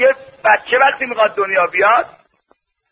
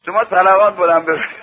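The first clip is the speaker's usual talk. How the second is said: laughing; 2 semitones lower than usual. Real, not acted. Laughs after his joke.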